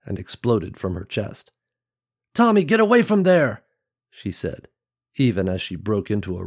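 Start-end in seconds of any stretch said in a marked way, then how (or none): 2.4-3.6 loud, high call to her son; alarmed yell. Acted. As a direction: yell at him to get away, fast. Mother yells at son near road.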